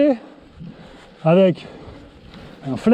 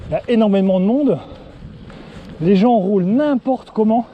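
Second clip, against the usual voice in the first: out of breath. Real, not acted. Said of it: "tu m'entends souffler comme un, un vulgaire petit poney".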